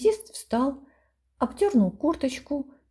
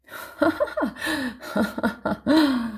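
delighted ha-ha-ha, second one slow; gleeful laughter; 4 semitones higher, slower than usual. A narrator's reading. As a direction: lodger crowing with laughter at the joke. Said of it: "ликовал жилец".

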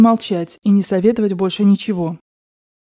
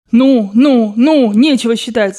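impatient; 2 semitones higher, 5 dB louder, slower than usual. A narrator's reading. Grandmother impatient at counting money.

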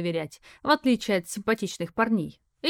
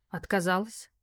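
softer, calm and level; calm reply; 5 dB quieter than usual. Acted. Tanya calmly tells Sergey she refused: soft and calm. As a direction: answer evenly, unbothered. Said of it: "всё так же спокойно".

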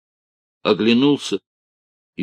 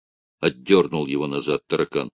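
ordinary delivery, nothing marked

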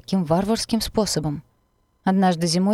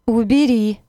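cowering plea; 5 semitones higher, 6 dB louder, slower than usual. A narrator's reading. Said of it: "втягивая голову в плечи".

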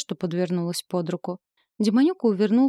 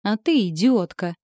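snarling retort; 4 dB louder than usual. Acted. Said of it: "ощерился демон".

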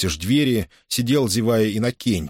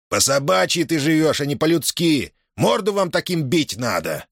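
heated; 7 semitones higher than usual. A narrator's reading. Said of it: "плюнул в сердцах Семён".

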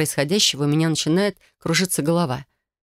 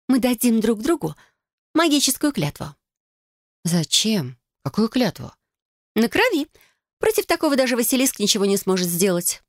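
put-on bright, higher girlish cousin voice, eager; Felicia's voice; 6 semitones higher than usual. Cousin proposing a blood oath to Adel, eager and higher. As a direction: play the scheming cousin, higher.

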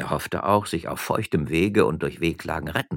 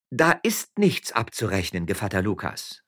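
calling out; 4 semitones higher than usual. Acted. Magistrate's wife to the miller, calling out. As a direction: call it out to stop him. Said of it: "rief die Frau Stadtrichter".

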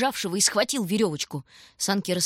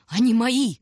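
higher, much louder, frantic and strained; hysterical scream; 5 semitones higher, 6 dB louder than usual. A narrator's reading. Starving stranger fighting children for the sled, hysterical scream. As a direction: scream it like a man losing his mind. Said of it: "истерически колотил он себя в грудь".

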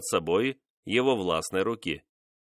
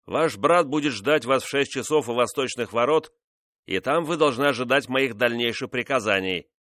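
stern king; 3 semitones higher than usual. Acted. King ordering his mistress away, stern and firm. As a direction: give orders coldly, a bit raised.

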